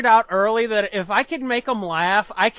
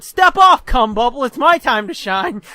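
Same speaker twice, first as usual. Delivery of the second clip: tag; 2 semitones higher, 7 dB louder than usual. Retold or imitated. Pushes brother out of way.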